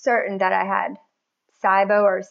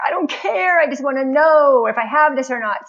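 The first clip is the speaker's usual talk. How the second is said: exasperated retort; 5 semitones higher, 4 dB louder than usual. Retold or imitated. Retelling exasperated reply to doctor.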